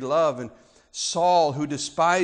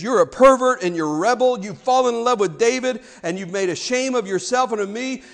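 accusing Saul; 4 semitones higher, 4 dB louder than usual. Acted. Paraphrases Saul accusing his son.

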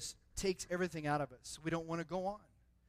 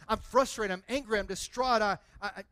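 frustration voiced louder, stammering at the end; louder frustrated quote; 2 semitones higher, 5 dB louder than usual. Preacher repeating the listener's cry, louder. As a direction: push it out, a mock outburst. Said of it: "maybe you've used some other explicitives".

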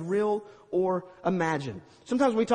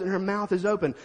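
usual speaking voice

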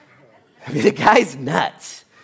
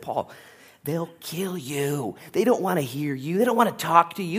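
urgent warning; 3 semitones higher than usual. Acted. Friends plead, slow warning.

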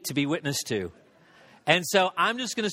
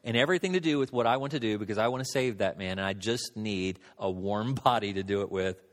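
voice of God; 7 semitones lower than usual. Retold or imitated. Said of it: "it was like God was saying".

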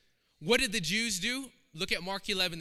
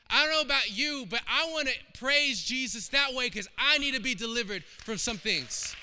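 rising fervour; 5 semitones higher, 4 dB louder than usual. Real, not acted. Preacher rising to full force.

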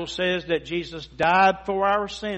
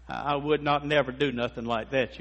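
mock bad grammar; 4 semitones lower, 5 dB quieter than usual. Shown as a demonstration. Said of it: "we're not supposed to use a double negative".

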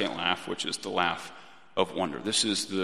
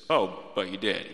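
gentle. Retold or imitated. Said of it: "he just gently says".

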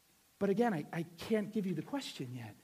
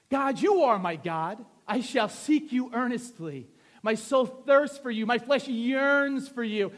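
slow, emphatic Bible reading; scripture reading; 2 semitones higher, 8 dB louder, slower than usual. Acted. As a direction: declaim the psalm with weight. Reads scripture aloud with force.

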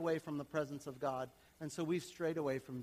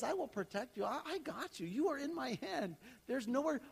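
1 reassuring voice of God; 7 semitones higher than usual. Retold or imitated. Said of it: "God says".

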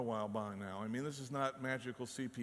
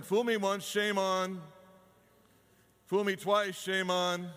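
loud, higher recitation; emphatic saying; 5 semitones higher, 7 dB louder than usual. Retold or imitated. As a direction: punch the old proverb. Quoting common saying emphatically.

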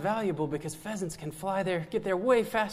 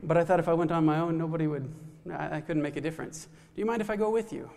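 chattery monkey; faster than usual. Acted. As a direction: rattle it off fast like an eager monkey. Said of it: "And the monkey says".

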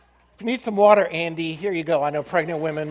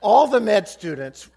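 mock gleeful; 5 semitones higher, 10 dB louder than usual. Students' excitement over cancer.

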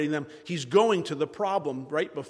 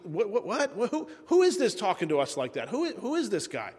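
high, stammering bewilderment; groggy confusion; 5 semitones higher than usual. Acted. Abner waking up to a stranger calling, confused. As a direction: stumble over it like someone just woken. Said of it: "He's waking up".

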